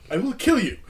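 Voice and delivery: put-on a laughing, light Indian accent on the threat; hint of a coworker's Indian accent, half laughing; lightly imitated Indian-accented coworker threatening; mock Indian accent. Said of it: "impersonate his accent".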